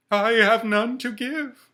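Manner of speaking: high, loud, slow ghostly wail; Marley's ghost. Acted. The ghost tells Scrooge of his chain, wailing high and loud. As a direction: moan each word like a chained spirit.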